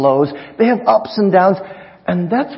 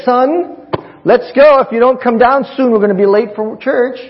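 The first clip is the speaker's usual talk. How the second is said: high, loud call up the stairs; a mother hollering upstairs; mom yelling upstairs; 8 semitones higher, 4 dB louder than usual. Retold or imitated. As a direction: shout for the son to hurry down. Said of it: "She yells upstairs".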